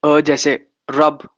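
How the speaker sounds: रब said slowly with a short u as in rub; slow example. Shown as a demonstration. Teacher giving example words for the vowel, slow. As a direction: drag out the example word रब. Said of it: "अ का sound देता है".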